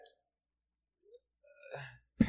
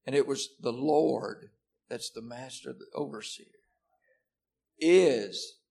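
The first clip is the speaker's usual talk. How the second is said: "it" and "is" pressed, louder at is; stress on it and is; 5 dB louder than usual. Shown as a demonstration. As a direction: push "it" and land hard on "is". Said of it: "emphasize each word individually".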